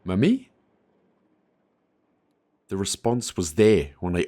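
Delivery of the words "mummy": high, small questioning voice; a lost little child calling out; child's voice rising in a question; child calling mummy. A narrator's reading. AI speaks as child.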